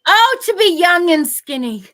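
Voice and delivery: loud, slow, theatrical lament; mock wistful sigh. Joking with a friend about cheap dresses, theatrical wistful lament. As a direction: sigh it like a melodramatic confession.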